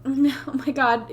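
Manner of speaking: cracking voice. Real, not acted. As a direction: voice cracks mid-laugh. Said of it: "excuse my voice crack".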